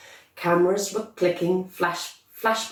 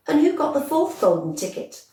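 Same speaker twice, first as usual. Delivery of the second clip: put-on high, eager child's question; eager boy; 10 semitones higher than usual. A narrator's reading. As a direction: ask like an excited little boy. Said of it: "Charlie asked".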